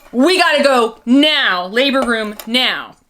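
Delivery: loud, slow, firm orders; urgent nurse. Retold or imitated. Experienced nurse rushing the mother to the labor room. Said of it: "and says".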